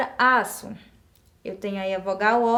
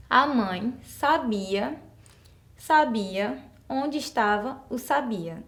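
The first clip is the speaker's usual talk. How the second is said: sabia said three times, all stressed on bi; slow demo of the wrong version; slow unaccented reading; slower than usual. Shown as a demonstration. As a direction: read it slowly with no accents. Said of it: "eu não acentuei nenhuma das palavras".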